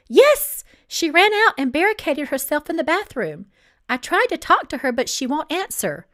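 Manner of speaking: high, loud and frantic; frantic worker explaining the locked bathroom; panicked. Acted. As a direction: blurt it out in alarm. Panicked employee reports a barricade.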